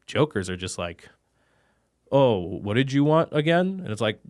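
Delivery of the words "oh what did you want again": mocking clueless vendor.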